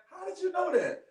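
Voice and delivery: high, amazed "How did you know that?" with stress on "you"; imitating surprise. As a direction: play the stunned teacher, pitch up on "you". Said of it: "And she just like".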